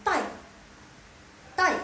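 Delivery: TAI held high and level; first tone. Shown as a demonstration. Teacher adding first tone for class, level TAI. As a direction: keep TAI on one even high pitch. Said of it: "Terus dikasih nada ke satu".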